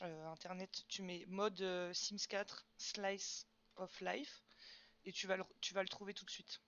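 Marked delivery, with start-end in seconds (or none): 2.8-4.4 English title slowly, French-accented; accent français en anglais. Real, not acted. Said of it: "Mon accent tout pourri". (accent français, articulé lentement)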